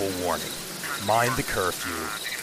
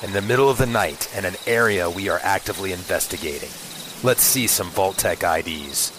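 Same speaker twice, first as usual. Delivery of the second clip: lightly voiced gruff old cop; a hint of a stern beat cop; 1930s beat cop; 5 dB louder than usual. Plays a gruff police commander.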